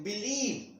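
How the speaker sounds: बिलीव with the ई drawn out long; stretched vowel. Shown as a demonstration. Teacher showing how बिलीव is stretched, drawn-out vowel. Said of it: "जिसमें हम खींच के बोलते हैं".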